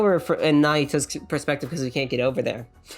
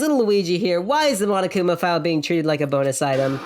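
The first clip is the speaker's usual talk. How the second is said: upbeat character intro; game show voice; 2 semitones higher than usual. Acted. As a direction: launch in like a show host. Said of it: "it's the only way I can get into character".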